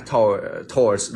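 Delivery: "thoughts" with the tongue poking out between the teeth for th; chẻ lưỡi khi đọc "thoughts". Shown as a demonstration. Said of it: "giống kiểu chúng ta chẻ lưỡi ra". (thè lưỡi giữa hai hàm răng khi đọc "thoughts")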